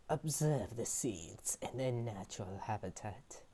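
hushed wildlife narrator voice; nature documentary. Pretend.

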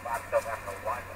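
faint voice through a radio; muffled ham radio speaker; crackly radio. Real, not acted. Station heard through the radio.

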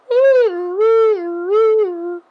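high, loud, squealing wee; excited creature cry; gleeful squeal. Acted. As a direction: squeal like a happy little creature. Game creature cheering.

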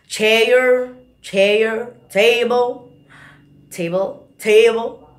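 drawn-out Texas "chair" and "table"; Texas drawl practice. Shown as a demonstration. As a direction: repeat each word with a stretched drawl. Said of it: "mereka melebih-lebihkan satu kata". (latihan logat Texas yang dipanjangkan)

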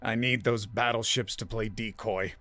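weak voice pushing through; frail voice. A narrator's reading. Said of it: "Fisher hated how frail his voice sounded".

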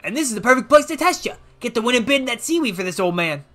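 folksy Southern mentor; hammed-up Southern, advising a kid; badly faked Southern old man; horrible Southern accent. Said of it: "I did a horrible Southern accent".

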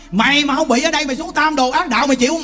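rough it up like a stern master scolding; mildly rough rebuke; rough Buddha scolding. Acted. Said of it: "thô thô một chút".

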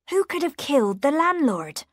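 baffled question, pitched high; confused. A narrator's reading. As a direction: ask it in bewilderment, voice lifting high.

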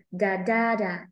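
"da, da, da" with the middle beat strongest; second-syllable stress. Shown as a demonstration. Teacher beating the word's rhythm, middle "da" stressed. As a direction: tap out da-DA-da. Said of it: "Nếu cái số hai thì em phải đọc".

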